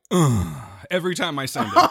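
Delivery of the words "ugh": Deep-voiced soul singer groan. Retold or imitated. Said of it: "the Barry White".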